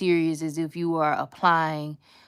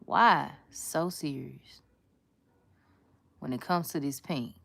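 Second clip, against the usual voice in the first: slow, light Joker drawl; a hint of the Joker, stretched out slowly. Nail artist teasing pink polish, slow light Joker line. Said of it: "I'm like the Joker".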